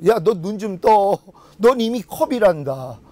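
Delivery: slow and tender, like a patient father; slow it right down and soothe; gentle voice of God. Retold or imitated. God gently waking the praying preacher, slow and tender.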